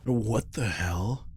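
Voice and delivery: shocked. Acted. Shocked discovery while drinking.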